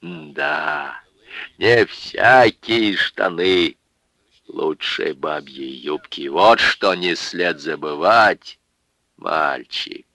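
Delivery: put-on slow, slurred drunken moralizing; drunk lecturing. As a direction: preach it like a tipsy old man. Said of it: "повторил своё недавнее изречение".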